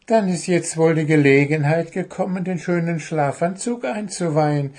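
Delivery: high, fast pleased goblin; quick high delighted goblin. Acted. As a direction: rush it out gladly. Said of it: "freute sich der Kobold".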